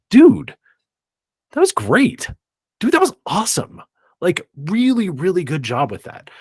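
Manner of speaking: high, eager shout of praise; hyped praise. Pretend. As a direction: cheer them on like a proud coach. Cheering on a crew member.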